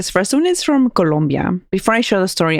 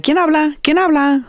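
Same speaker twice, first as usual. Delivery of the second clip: imitating radio hosts; 10 semitones higher than usual. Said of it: "And they're like".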